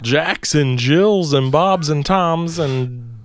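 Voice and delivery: stretching out a mock showman roll call; ringmaster call. Ringmaster bit trails off.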